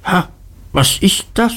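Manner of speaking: high, startled, menacing question; strained, threatening challenge; whispery schoolmaster. A narrator's reading. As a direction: pounce on the boy with a sharp "Ha". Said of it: "Mister Creakle flüsterte".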